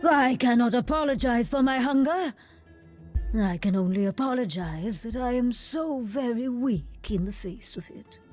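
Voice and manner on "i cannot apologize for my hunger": louder, insistent declaration; raised voice, unrepentant; defiant outburst. Acted. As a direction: push it out forcefully, unashamed of the hunger. Defiant outburst about hunger.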